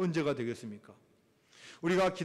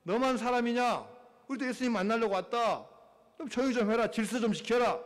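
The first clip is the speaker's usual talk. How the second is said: higher-pitched rebuke from the crowd; mild acted scolding; 4 semitones higher than usual. Crowd rebuking the man calling Jesus, scolding. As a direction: scold a noisy man pushing in. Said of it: "많은 사람들이 꾸짖는 거예요".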